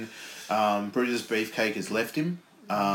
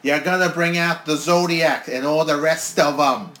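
loud, slow hyped yelling; excited shout; 5 semitones higher, 8 dB louder, slower than usual. Real, not acted. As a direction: call it out like a hyped fan. Hyped about wrestlers coming out.

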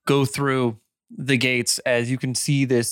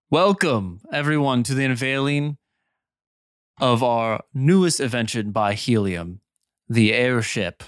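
lightly voiced dignitary's public address; light ceremonial host. Amir unveiling the airship to nobles, lightly ceremonial. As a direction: present it to a gathered crowd, mildly proclaiming.

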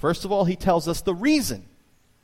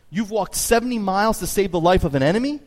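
higher and louder, amazed; astonished cry; 7 semitones higher, 5 dB louder than usual. A narrator's reading. Washington to the old preacher, astonished and louder. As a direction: marvel out loud at his deed. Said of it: "cried Washington".

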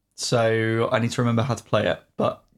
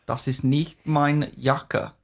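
slow, deliberate put-on German; strong German accent; slower than usual. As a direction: draw it out in mock German. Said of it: "a really strong accent".

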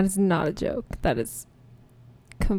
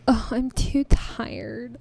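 slow, mildly whiny mock of an absent friend; Sid; 3 semitones higher, much slower than usual. Co-host imitates absent friend begging off, slow mock-weary voice. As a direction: lightly imitate a tired co-host, dragging it out. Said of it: "that wasn't a good Sid voice".

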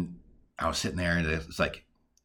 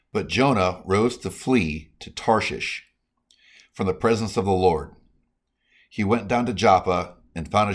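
emphatic, measured Bible reading; proclaiming scripture to listeners. Real, not acted. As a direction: read the verse out firmly, phrase by phrase. Reads scripture aloud.

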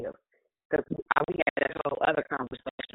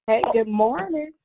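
calling out greeting; 10 semitones higher, 4 dB louder, slower than usual. Real, not acted. Greeting the group on the call.

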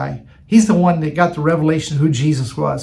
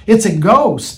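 mild cry of alarm, slightly louder; retold fearful cry; 3 semitones higher, 4 dB louder than usual. Disciples spotting a figure walking on the sea, mildly alarmed. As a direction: retell a frightened outcry with a touch of alarm. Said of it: "they cried out in fear".

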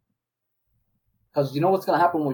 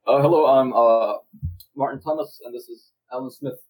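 sports commentator; 4 dB louder than usual. Retold or imitated. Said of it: "commentators go like".

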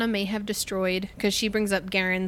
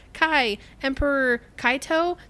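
put-on a light, higher, unsure girlish voice, slowing down; nervous young queen; 6 semitones higher than usual. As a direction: shyly ask how to address him. Retelling the young queen's awkward question.

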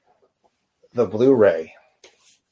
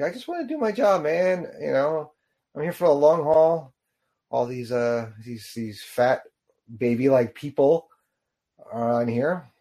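lightly voiced grumbling robot, pitched up; a hint of a fed-up worker robot, higher; voicing grumpy robot; 4 semitones higher than usual. Commentator voicing Bernie annoyed at intruders, lightly mock grumble.

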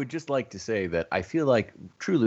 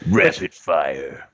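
robotic gun command; 5 semitones lower, 6 dB louder, much slower than usual. Pretend.

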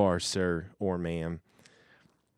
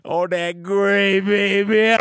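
high, loud, slow mock-seductive croon; over-the-top flirty falsetto; hammed-up sultry; 11 semitones higher, 11 dB louder, slower than usual. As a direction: camp it up, stretching gray. Repeating in hammed-up voice.

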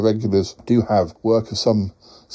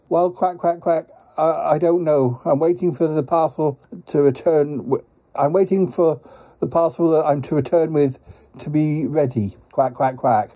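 lightly voiced, quack-punctuated character; rueful quacking creature; 4 semitones higher than usual. Quacking visitor blames the rich pies, lightly rueful creature voice. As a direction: play a mildly complaining quacking creature.

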